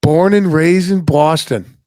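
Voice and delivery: put-on slow, drawn-out go at a Boston accent; attempted Boston accent. Host echoing his Boston guest's roots, attempted Boston accent. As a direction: imitate a Boston accent, stretching the words. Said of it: "I'll get the accent, dude".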